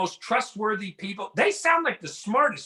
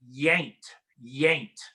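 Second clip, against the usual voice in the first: lightly imitated hick drawl, lower pitch; hick accent; 6 semitones lower than usual. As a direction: mimic a hick brother-in-law. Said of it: "he's real hick".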